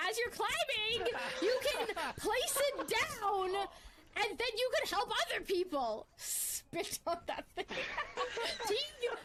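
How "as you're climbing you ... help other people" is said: giggling. Real, not acted. Retrying a sentence through giggles.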